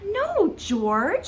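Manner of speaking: high, stretched "No", dropping on the name; gently scolding storybook mother; mother dog correcting. A narrator's reading. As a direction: correct a pup with a long, high no. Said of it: "said George's mother".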